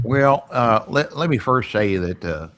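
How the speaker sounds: a Kentucky accent, debating like a senator. Shown as a demonstration. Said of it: "So that is my Kentucky accent".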